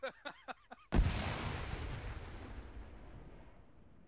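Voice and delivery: real burst of laughter; amused, wordless laugh. Real, not acted. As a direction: break out laughing at the chaos. Amused after vehicle gets shot.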